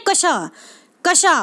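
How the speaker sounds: "कशा" said as ka-sha; teacher repeating "कशा" as ka-sha; model pronunciation. Shown as a demonstration. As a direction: sound both k and sh in "कशा". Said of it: "क्या पढ़ते हैं?".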